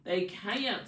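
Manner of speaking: soft southern twang on "can't"; southern accent. Shown as a demonstration. Reader echoing her own words to Pisces, southern accent. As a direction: open "can't" into a southern "kai-unt". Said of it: "the way I was saying can't".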